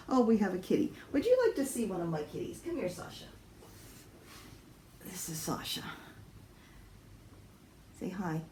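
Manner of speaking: high sing-song voice for the cat; pet talk. Real, not acted. Owner calling her cat to the camera, cooing high.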